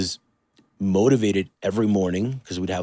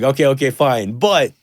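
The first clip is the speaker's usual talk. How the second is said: insistent; 3 semitones higher, 5 dB louder than usual. Retold or imitated. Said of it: "I'm like".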